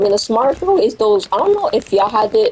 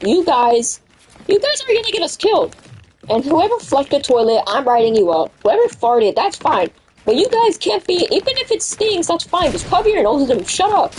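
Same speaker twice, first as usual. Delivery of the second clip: higher-pitched mock lecture; teacher's scolding speech; 7 semitones higher than usual. Teacher lecturing class after code red, mock scolding. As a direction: lightly imitate an exasperated teacher. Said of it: "the teacher gives a speech out".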